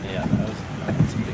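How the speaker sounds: loud amazed exclaim; excited. Real, not acted. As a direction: burst out, awed. Reacting to big storm hit.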